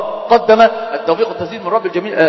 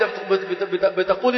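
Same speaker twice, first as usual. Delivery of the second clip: mock stammer; 7 dB quieter, slower than usual. Shown as a demonstration. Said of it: "وأنت مرتجف".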